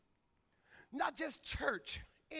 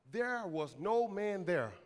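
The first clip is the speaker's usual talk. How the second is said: slow, lower reading of the verse; measured scripture reading; 5 semitones lower, much slower than usual. Real, not acted. Preacher reading a verse to the church, slow and measured. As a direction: let each word land slowly, low.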